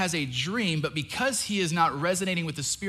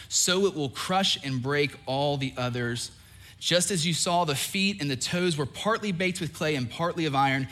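scripture reading. Acted. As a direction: read the prophecy with weight.

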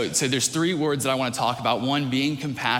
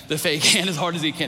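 higher, louder, tickled by the prank; amused, laughing; 4 semitones higher, 5 dB louder than usual. Real, not acted. Preacher relishing how he just slams the hand, amused and laughing. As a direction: laugh breaking into the words, pitched up. Amused telling of illusionist's hammer trick.

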